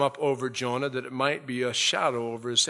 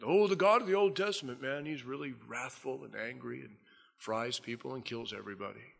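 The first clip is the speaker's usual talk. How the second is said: mock popular view; 5 dB quieter than usual. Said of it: "We get the idea that".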